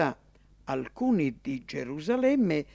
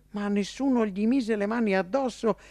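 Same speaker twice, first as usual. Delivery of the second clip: plain reading voice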